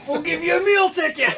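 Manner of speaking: laughing, high and excited. Real, not acted. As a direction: blurt it out through laughter. Laughing joke exchange.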